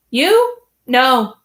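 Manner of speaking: a sharp high "You?" then a flat "No"; scoffing surprise. A narrator's reading. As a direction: brush the idea off with a scoff. King dismisses suspicion.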